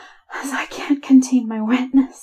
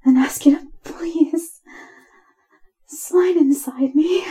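higher, breathy plea; breathless, higher-pitched begging; innocent pleading; 4 semitones higher, 5 dB louder than usual. Acted. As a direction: plead with airy softness in the voice. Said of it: "and pleading tone".

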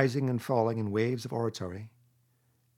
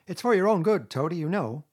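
high, louder coaxing Rat; kindly; 7 semitones higher, 7 dB louder than usual. A narrator's reading. Rat hauling struggling Toad upstairs, kindly. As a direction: coax him, kindly but insistent. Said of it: "said the rat kindly".

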